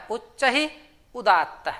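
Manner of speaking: उच्चैरुदात्तः said slowly, syllable by syllable; उच्चैरुदात्तः drawn out like a teacher reciting a rule; slow sutra recitation. Shown as a demonstration. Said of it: "उसका सूत्र होता है".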